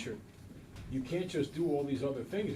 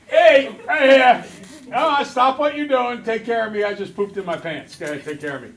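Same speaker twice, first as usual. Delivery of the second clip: put-on demanding baby; 6 semitones higher, 13 dB louder than usual. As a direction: boss the parents around like a spoiled baby. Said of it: "You're like".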